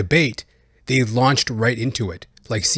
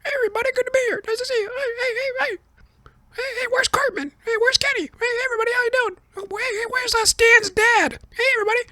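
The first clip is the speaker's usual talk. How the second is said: very high cartoon squeak, greeting the empty room; a high-pitched South Park parody of Biden; squeaky cartoon Joe Biden saying hello to nobody; South Park Biden mockery; much faster than usual. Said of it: "it seemed like a South Park skit".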